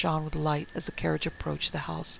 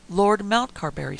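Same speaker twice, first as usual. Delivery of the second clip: higher, louder curt snap; sharp, raised snap; snapped; 4 semitones higher, 7 dB louder than usual. A narrator's reading. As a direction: bite off the name impatiently. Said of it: "snapped Van Helsing".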